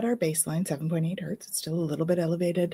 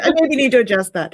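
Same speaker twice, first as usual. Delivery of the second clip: loud, higher, quick giggly remark; giggling; 6 semitones higher, 10 dB louder, faster than usual. Real, not acted. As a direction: talk through real giggles. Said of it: "It gave me the giggles".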